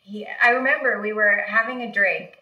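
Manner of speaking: ordinary delivery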